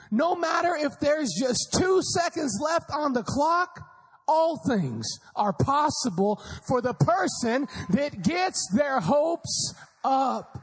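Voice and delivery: drawn-out, rising preacher's call; preaching build. Real, not acted. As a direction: preach it to the crowd. Preaching climax.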